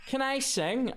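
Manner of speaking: imitating a punter. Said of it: "somebody came over to me and goes".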